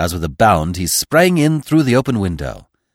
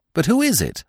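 cried out; 8 semitones higher than usual. A narrator's reading. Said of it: "I cried".

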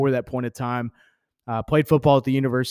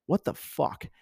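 breathy whispered curse; inner thought whispered; 3 semitones higher, 7 dB quieter, slower than usual. Retold or imitated. Recalling the coach's news, he whispers his disbelief. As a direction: whisper it like a private thought in your head. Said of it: "in my mind, I was thinking".

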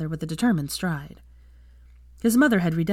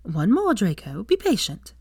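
chiding; 3 semitones higher than usual. Acted. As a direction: rebuke him lightly to wait. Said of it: "his mother chided".

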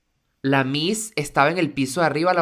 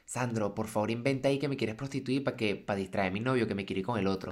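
conspiratorial phone plea; 4 semitones lower, 8 dB quieter than usual. Acted. Imagined secret phone call.

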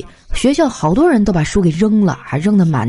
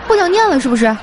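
raised-pitch, indignant telling-off; mock teacher scolding; 5 semitones higher than usual. Class teacher scolds student for throwing books, mock stern. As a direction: imitate a teacher dressing down a student.

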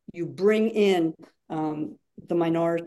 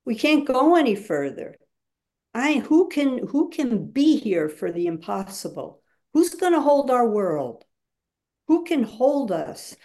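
facilitator voicing despair; 3 semitones higher than usual. Shown as a demonstration. Facilitator demonstrating to the group a mock despairing plea. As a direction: speak the group's hopeless plea, building. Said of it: "You must say to a group".

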